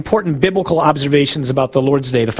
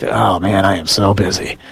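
mock busy priest; 8 semitones lower than usual. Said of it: "you know, it's like".

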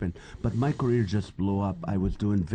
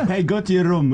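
high-pitched scolding dad, played for laughs; mock parental scolding; 10 semitones higher, 4 dB louder than usual. Comedian dad imitating himself disciplining his kids, mock scolding. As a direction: send the kid off in a raised, high voice.

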